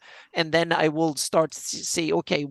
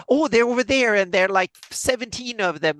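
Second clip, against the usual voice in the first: goblin voice; 5 semitones higher than usual. Retold or imitated. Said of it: "and he said".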